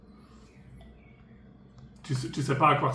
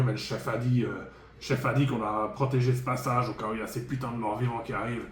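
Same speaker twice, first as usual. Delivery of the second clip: dwarf voice. Acted. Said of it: "pourquoi je parle comme un nain?".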